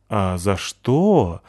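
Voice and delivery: very slow, musing; thoughtful. Acted. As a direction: ponder aloud. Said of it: "задумчиво спросил мальчик". (задумчиво, медленно)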